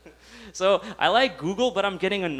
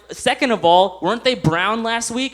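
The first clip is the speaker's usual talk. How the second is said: indignant; 5 semitones higher, 5 dB louder than usual. Retold or imitated. Retold indignant question.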